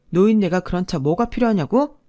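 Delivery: throws his own words back with a sneering rise; mocking echo. Wife mocking husband's words back at him. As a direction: mimic him, incredulous.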